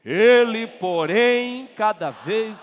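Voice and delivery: shouted high; loud group reading. Real, not acted. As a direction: belt out the word Ele. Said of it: "Leiam todos juntos, bem forte".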